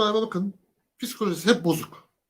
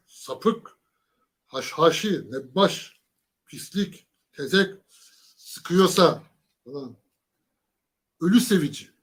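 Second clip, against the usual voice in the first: louder, stressed insults, "sıkıyorsa" drawn out slowly; mock emphatic insults; 5 dB louder, much slower than usual. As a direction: hammer each word like a furious politician. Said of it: "bunları vurgulayarak söylüyor". (vurgulayarak sıralanan hakaretler, taklit)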